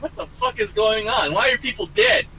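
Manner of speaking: high bewildered rant; confused panic. Retold or imitated. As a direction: sound lost and high. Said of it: "you're like".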